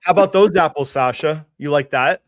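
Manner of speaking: loud, gloating jab at Sasha; gloating taunt. Real, not acted. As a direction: rub it in his face, loud. Gloating at rival.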